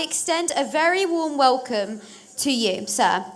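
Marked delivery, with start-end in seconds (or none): none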